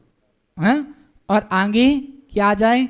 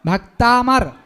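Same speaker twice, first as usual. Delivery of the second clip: भक्ता मर said out louder for the class; slower than usual. Shown as a demonstration. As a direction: project मर to the back row. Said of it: "और जोर से बोलिए". (कक्षा के लिए जोर से भक्ता मर)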